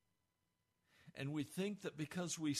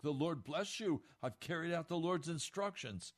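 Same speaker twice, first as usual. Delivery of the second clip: pious God talk; 2 semitones higher, 3 dB louder than usual. Retold or imitated. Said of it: "Saul is talking God talk".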